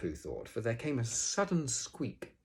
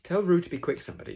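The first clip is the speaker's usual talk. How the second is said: high, loud, brisk call; wrong character voice; 10 semitones higher, 9 dB louder, faster than usual. Acted. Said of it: "Sorry, that's, uh, Eeyore saying that".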